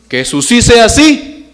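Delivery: loud, high, drawn-out proclamation; ringing, stretched preaching cry; emphatic declaration. Acted. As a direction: proclaim it slowly at full force. Preacher drives home the verse.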